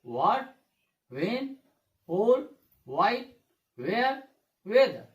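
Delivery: "व्हाट, व्हेन, व्होल" as wat, wen, hol, silent letter dropped; correct pronunciation. Shown as a demonstration. Teacher repeating the model words for pupils, correct pronunciation. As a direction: list "व्हाई, वेयर, वेदर" one by one without extra h. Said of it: "कैसे उच्चारण करना है?".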